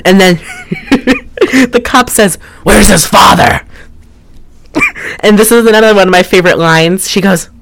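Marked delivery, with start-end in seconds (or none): 2.6-3.6 mock stern cop. Voices the cop in the film.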